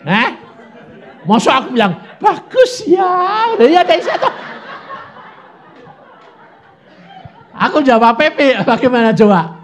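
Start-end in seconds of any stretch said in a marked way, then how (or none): 1.3-9.6 high, loud talk through laughter; laughing. Real, not acted. Preacher laughing with the congregation, high and loud. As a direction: laugh while telling it.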